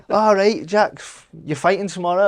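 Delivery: a wobbly half-hearted Scottish coach impression, giggling through it; bad Scottish accent. Boxer retelling his coach's news in a bad Scottish accent. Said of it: "worst Scottish accent I've ever heard".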